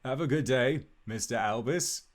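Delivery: lightly voiced guard's polite farewell; a hint of a guardsman, slightly lifted pitch; town guardsman. Guard taking leave of Albus, light guardsman voice. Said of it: "and says".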